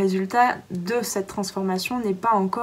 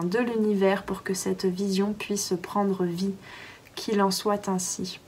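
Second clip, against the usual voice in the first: calm intention reading. Acted. Reads intention slowly.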